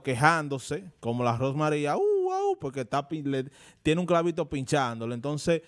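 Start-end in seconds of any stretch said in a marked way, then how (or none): 2.0-2.6 squealed puppy yelp, pitched way up; dog yelping. Retold or imitated. Comparing singer to a whining puppy, high mock yelp. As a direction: mimic a pained little dog's cry. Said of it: "un perrito que está gritando y gritando".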